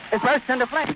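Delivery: real alarm breaking into the report; horrified cry. Real, not acted. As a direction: voice leaps high in sudden shock. Reporter sees the airship explode.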